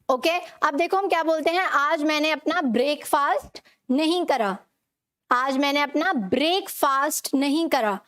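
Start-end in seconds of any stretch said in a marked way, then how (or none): 1.6-8.0 ब्रेकफास्ट said "brake-faast"; common mispronunciation. Shown as a demonstration. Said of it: "हम इसे गलत बोलते हैं".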